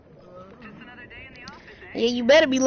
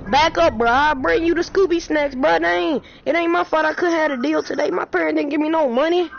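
put-on raised pleading kid voice; mock pleading; 5 semitones higher, 3 dB louder than usual. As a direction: whine it like a broke kid. Pleading in-game character voice.

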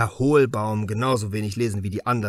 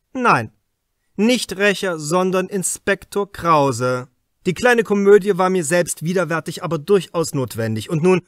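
a raised, higher, pressing voice, louder; probing inspector; 3 semitones higher, 6 dB louder than usual. Acted. Inspector Krause questions the suspect writer Hartwig, louder and pressing. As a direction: lean in hard, like an interrogator closing in. Krause drops his disguise.

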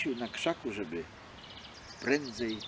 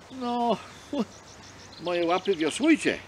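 bold fox; 7 semitones higher, 3 dB louder than usual. Acted. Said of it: "mówi odważnie".

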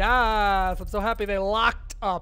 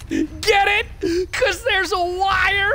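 too much caffeine; 9 semitones higher, 5 dB louder, slower than usual. Real, not acted. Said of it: "I'm wired".

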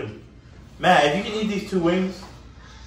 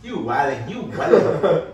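laughing; 6 dB louder, slower than usual. Real, not acted. Laughing at friend.

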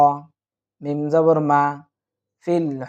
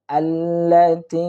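slow recited word; much slower than usual. Shown as a demonstration. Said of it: "teacher recites joined word".

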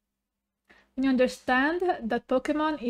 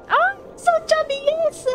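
excited squeal; 12 semitones higher than usual. Real, not acted. Squealing at chubby Spheal.

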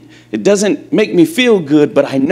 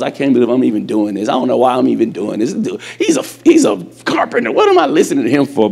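grumbling thoughts; 4 semitones lower, faster than usual. Acted. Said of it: "he might have been having thoughts".

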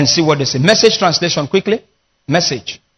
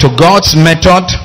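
call and response; 3 semitones lower, 4 dB louder than usual. Acted.

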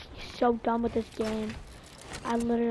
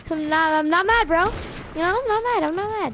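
sarcastic denial; 4 semitones higher, 5 dB louder than usual. Real, not acted. Laughing denial of anger.

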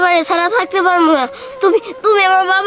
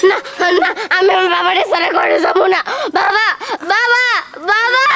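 crying out. Acted. Child refuses, crying for father.

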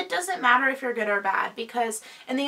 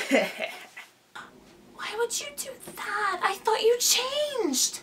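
disappointed; 9 semitones higher, 4 dB quieter, much slower than usual. Acted. Skit character disappointed.

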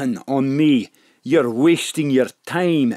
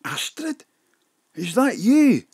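high, wondering disbelief; amazed recognition; 10 semitones higher than usual. Acted. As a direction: rise up in delighted surprise. Gangster recognises old friend's daughter.

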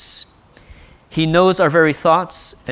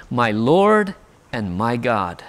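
reverent confession; 5 semitones lower, slower than usual. Acted. Thomas's confession retold.

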